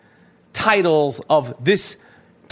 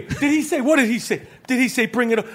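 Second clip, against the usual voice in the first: lightly acted irritated questioning, pitched up; higher, testy mock-boss asking; put-on incredulous boss voice; Danny Aiello; 4 semitones higher, faster than usual. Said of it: "That's Danny Aiello".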